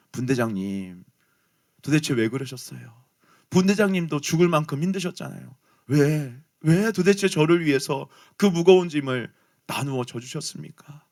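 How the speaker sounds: choked-up plea. Retold or imitated. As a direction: hold back tears as you ask why. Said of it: "울먹이면서 이렇게 말하는 거예요".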